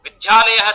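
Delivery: विद्यालय said as vidhyalayah. Shown as a demonstration. Teacher showing Rajasthani fault, विद्यालय with dh. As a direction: aspirate the d of विद्यालय into 'dh'. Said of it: "दकार से धकार रूपेण".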